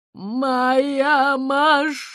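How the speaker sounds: slow, loud wail of loss; despairing cry. Acted. The owl sees her car crushed, crying out loud. UFO lands on owl's car.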